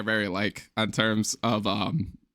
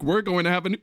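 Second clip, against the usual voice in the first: hiccup breaks the sentence; 5 semitones higher than usual. Real, not acted. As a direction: speak while hiccuping hard. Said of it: "I am hiccuping like crazy".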